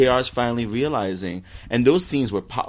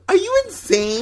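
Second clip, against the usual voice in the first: very high-pitched disbelief; real indignant squeak of disbelief; incredulous protest. Real, not acted. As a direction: challenge them, voice shooting way up. Quarrel over an actor's talent.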